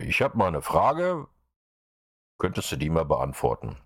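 reads out a model question; dictating a sample message. Shown as a demonstration. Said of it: "also könntest du so schreiben".

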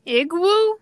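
Igwu said IG-woo with a rising tune; Igwu pronounced IG-woo. Shown as a demonstration. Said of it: "it's pronounced Igwu".

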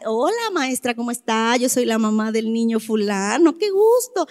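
polite self-introduction, low and soft, lifting at the end; respectful greeting. Acted. Mother meeting her child's new teacher, respectful greeting. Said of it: "eres respetuoso".

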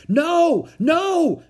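high, loud cries of refusal; cried protest. A narrator's reading. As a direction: cry out in alarm to stop it. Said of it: "cried Jack".

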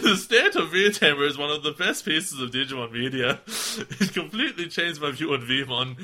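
lightly voiced Walken-style halting read; a hint of Christopher Walken; Christopher Walken impression. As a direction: drift into a faint Christopher Walken cadence. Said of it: "Come back to Christopher Walken".

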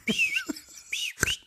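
short high whistles at a deer; imitated whistling. Hunter showing how they whistled at a buck, imitated whistles. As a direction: whistle to get an animal's attention. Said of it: "I started whistling at him".

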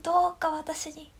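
high, formal campaign address; rally speech. Pretend. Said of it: "街頭演説したい". (街頭演説の口調)

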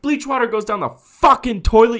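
high, exasperated shout; retold yelling. Podcaster replaying his answer to the careless neighbor, yelling. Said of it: "I yelled at him".

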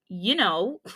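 laughing through embarrassment; a flustered little laugh; embarrassed laugh. Real, not acted.

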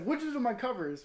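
high, loud mock indignation; imitated outraged complaint. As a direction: yell it like a bewildered, angry roommate. Voicing trapped roommate's complaint.

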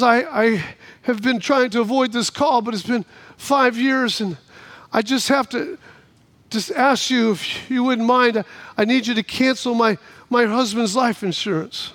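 lightly voiced hesitant old woman; a hint of a reluctant, subdued caller; elderly woman. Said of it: "old elderly woman, she calls up".

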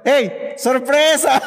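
family shouting surprise at the birthday girl, mock yell; retold surprise shout. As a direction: stretch out the party yell. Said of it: "tuvieron que gritar".

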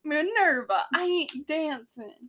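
drawn-out mock Brooklyn accent; stubborn refusal in put-on Brooklyn. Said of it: "The Brooklyn accent".

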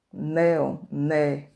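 "néon" loud on its first syllable, then "né" alone; teacher isolating loud "né"; stressed syllable demo. Shown as a demonstration. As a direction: punch out "né" from "néon". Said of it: "a sílaba tônica das palavras".

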